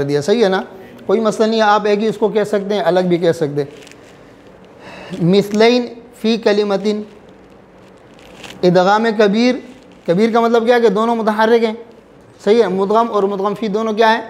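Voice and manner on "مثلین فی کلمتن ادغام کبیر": مثلین فی کلمتن said slowly and deliberately; slow announcing. Shown as a demonstration. Teacher naming the rule for the class, slow.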